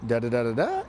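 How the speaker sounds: needy rising tune; rapport-seeking lilt. Shown as a demonstration. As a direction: ask for approval with every ending. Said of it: "where it sort of lilts up at the end".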